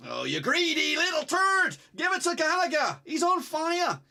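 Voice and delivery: annoyed fan; exasperated jibe. Real, not acted. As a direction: scold a greedy player. Player didn't pass the ball.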